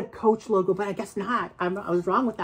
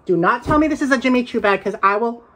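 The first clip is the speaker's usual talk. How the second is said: excited; faster than usual. Real, not acted. Guessing the bag brand.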